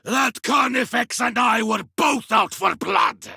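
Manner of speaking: battle-heated victory shout; exultant shout. Acted. Warrior fresh from killing a Carnifex, exultant shout. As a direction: shout it out to the squad.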